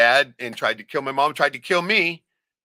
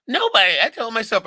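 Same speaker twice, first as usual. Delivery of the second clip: defiant; 12 semitones higher, 8 dB louder than usual. Retold or imitated. Niece defiantly answering her uncle.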